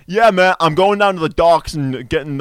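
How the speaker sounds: imitated commercial Boston accent. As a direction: mimic the ad's Boston accent. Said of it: "he did it in a Boston accent".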